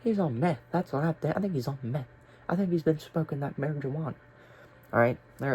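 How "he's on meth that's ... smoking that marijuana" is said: higher mock teacher gossip. Teacher whispering guesses about the student, mock gossip. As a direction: play a nosy teacher guessing drugs. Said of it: "over there saying whatever".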